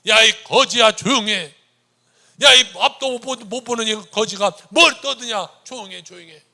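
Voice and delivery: loud, harsh yelling at a beggar; crowd scolding. Acted. Healthy crowd yelling at the blind beggar, angry shout. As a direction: bark at him to shut up. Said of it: "건강한 사람들이 뭐라고 하는지 아세요".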